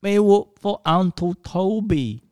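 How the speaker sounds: high, slow silly cartoon voice; Elmer Fudd voice. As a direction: talk like a dim cartoon hunter. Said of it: "like, Elmer Fudd".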